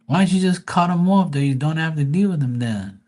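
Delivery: put-on a touch of a fed-up boyfriend yelling; exasperated scolding. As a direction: tell her off, half joking. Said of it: "I'm saying".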